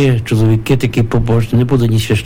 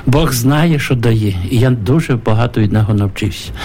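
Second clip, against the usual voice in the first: put-on gentle wise old man; slower than usual. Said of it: "як він гарно сказав".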